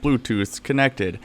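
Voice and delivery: slow, flat recorded announcement voice; robotic Bluetooth lady. Retold or imitated. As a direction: imitate a cheap device's voice prompt. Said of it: "the most hilarious Chinese voice".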